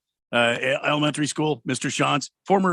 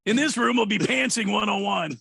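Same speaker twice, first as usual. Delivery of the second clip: lightly voiced, raised-pitch seminar guide; P.E. conference host; 6 semitones higher than usual. Conference host directing teachers to a breakout room, mock-official. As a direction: announce the session like a conference host. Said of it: "this P E conference".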